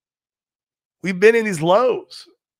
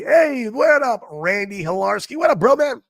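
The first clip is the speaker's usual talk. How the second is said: excited greeting; 7 semitones higher than usual. Real, not acted. Greeting a chat viewer.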